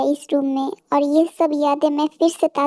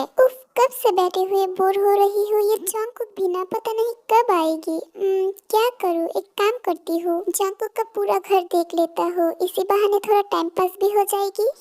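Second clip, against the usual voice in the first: put-on lightly raised girlish voice, sighing boredom; a hint of a restless young woman grumbling to herself; bored girl Tae; 4 semitones higher than usual. Tae bored in Jungkook's house, grumbling lightly voiced.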